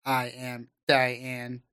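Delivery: slow, even robot butler voice; polite butler robot. Pretend. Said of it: "weird robot butler kind of things".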